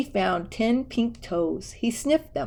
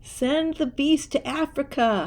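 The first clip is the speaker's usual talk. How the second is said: huffy; 6 semitones higher than usual. A narrator's reading. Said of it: "huffed Uncle Theodore".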